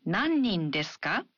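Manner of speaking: ka lifted at the end; rising question. Shown as a demonstration. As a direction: ask Nannin desu ka rising. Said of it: "add a rising intonation".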